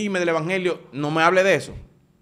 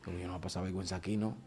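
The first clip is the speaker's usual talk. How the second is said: much softer, fast under the breath; muttered resolve; 8 semitones lower, 13 dB quieter, faster than usual. Retold or imitated. Deciding under his breath not to be shamed, quick mutter. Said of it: "y digo".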